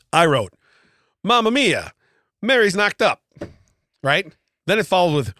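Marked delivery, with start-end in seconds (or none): 1.2-3.2 a light Italian-American gossip voice on "Mamma mia"; lightly voiced Italian gossip reading scripture; Italian dialect. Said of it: "reading it, like, with an Italian dialect".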